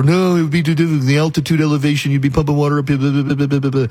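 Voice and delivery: mock naysayer voice fading into blah blah; mocking doubters. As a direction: parody the complainers dismissively. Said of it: "And people are".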